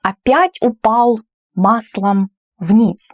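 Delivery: upset grumble. Shown as a demonstration. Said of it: "he's upset about it".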